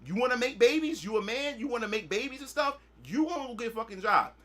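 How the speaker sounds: hammed-up father laying down the law; mock angry dad. Dad scolding son who got his girl pregnant, mock loud lecture. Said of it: "My dad like".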